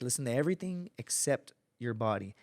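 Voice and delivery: quiet, soothing coaching; calm instructor. Retold or imitated. Instructor quietly coaching a student to endure the position. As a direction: gently bring the student back to focus. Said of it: "Real calm".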